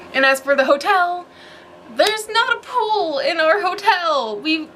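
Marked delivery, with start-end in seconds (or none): 1.9-4.7 laughing it off, disappointed. Real, not acted. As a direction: say it through a laugh. Laughing disappointed about hotel pool.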